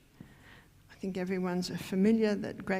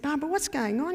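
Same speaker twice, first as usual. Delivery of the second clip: puzzled husband; 6 semitones higher, faster than usual. Retold or imitated. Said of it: "Michael said to me".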